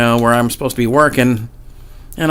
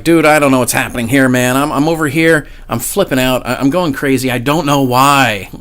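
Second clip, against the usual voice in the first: retold venting; 3 dB louder than usual. Venting to an older buddy in his aisle, retold venting. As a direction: blurt it out, imitating a frantic vent. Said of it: "I just start venting".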